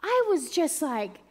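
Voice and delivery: high, loud and fast euphoria; ecstatic rush. Real, not acted. Reaching the other side, loud ecstatic joy. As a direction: burst with joy. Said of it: "zero to a hundred".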